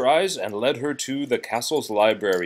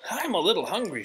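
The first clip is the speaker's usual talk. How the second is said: shy request; 8 semitones higher, faster than usual. Acted. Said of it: "she told her new friends".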